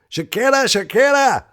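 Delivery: high, loud lovestruck calling; hammed-up adoring cry; mock swooning call. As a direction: call her name like a devoted fan. Imagined swooning devotion.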